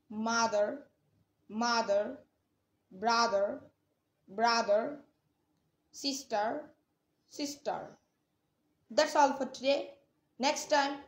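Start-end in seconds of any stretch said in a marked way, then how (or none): 0.1-7.8 "mother", "brother", "sister" each ending on an American r; final r sounded, American. Shown as a demonstration. Teacher drilling US word endings, "mother", "brother", "sister" with final r sounded. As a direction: say "mother", "brother", "sister" separately with the last r pronounced. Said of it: "at the first".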